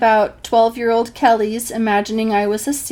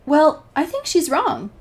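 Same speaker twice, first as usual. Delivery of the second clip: grinning; 7 semitones higher, 3 dB louder than usual. Retold or imitated. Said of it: "he replies with a grin".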